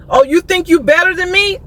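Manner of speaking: mildly mocking high-pitched mimicry; retold pissed-off man. Woman throwing the salesman's words back, mock indignant.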